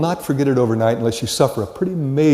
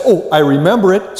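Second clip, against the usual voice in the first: mock recognition; 6 semitones higher, 4 dB louder than usual. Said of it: "and you say".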